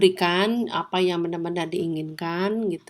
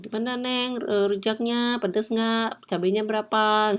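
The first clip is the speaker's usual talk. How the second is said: playful higher-pitched rujak seller; street vendor voice; 4 semitones higher than usual. Retold or imitated. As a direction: chat up the customer like a street vendor. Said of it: "abang bakso atau abang rujak". (penjual rujak yang ramah, suara lebih tinggi)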